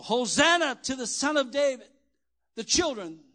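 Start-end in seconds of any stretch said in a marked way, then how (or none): 0.0-1.9 raised, ringing cry of praise; children's shout imitated. Preacher voicing children shouting in the temple, imitated shout. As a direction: call it out like shouting children, higher and louder. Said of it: "started shouting out in the temple".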